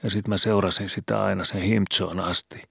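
put-on a scared boy asking in the dark; worried boy Skobe. A narrator's reading. Skobe confessing, higher. (huolestunut poika)

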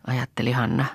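ordinary delivery

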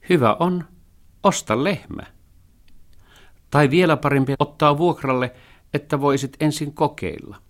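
a clever, practical tomcat advising; Matroskin the cat. A narrator's reading. (nirso kissan ääni)

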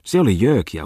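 exclaiming. Acted. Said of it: "huudahti maisteri Bungman".

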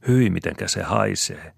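high, loud disgusted cry. A narrator's reading. Saara cries out in disgust at the dead gull. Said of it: "huudahtaa Saara".

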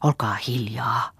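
slow, breathy whisper with no voice; hushed hiss. A narrator's reading. Riikka hushes the girls near the praying Auno, in a slow voiceless whisper. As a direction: hiss it slowly so nobody overhears.

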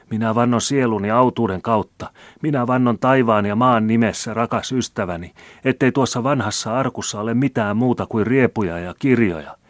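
high, loud, desperate oath; anguished. A narrator's reading. Old man swears his chest holds no money, anguished. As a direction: swear it insistently, clearly in distress. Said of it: "virkkoi taas Larsson ilmeisesti tuskissaan".

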